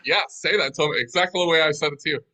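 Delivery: firm, insistent instruction; authoritative. Retold or imitated. Boss pushing his weak translator, authoritative. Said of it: "have some authority in my voice".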